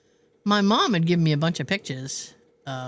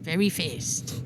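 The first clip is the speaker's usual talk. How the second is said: South Park echo; 2 semitones lower, 5 dB quieter, slower than usual. Retold or imitated. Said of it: "From South Park".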